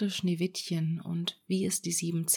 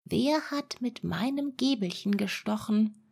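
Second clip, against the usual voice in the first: higher indignant dwarf voice; fifth dwarf; 3 semitones higher than usual. Acted. Fifth dwarf asking about his fork, higher voice. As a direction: ask it up high, puzzled. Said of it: "Der fünfte".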